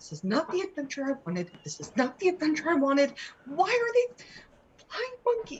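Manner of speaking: high, upset, distressed whining. Voicing a character sitting on the ground, hugging her knees: distressed in-character lament. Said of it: "She is sitting on the ground, holding her knees up, going".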